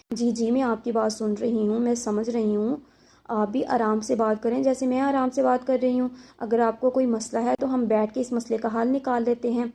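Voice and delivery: gently calm him down, no edge at all; soft gentle reply. Shown as a demonstration. Wife soothing her angry husband, softly and calmly. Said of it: "نرم لہجے میں رکھنی ہے".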